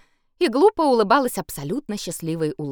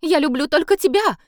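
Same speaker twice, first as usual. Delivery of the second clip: high, loud desperate plea; pleading; 10 semitones higher, 5 dB louder than usual. A narrator's reading. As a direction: beg him to believe her. Favourite pleading with emperor.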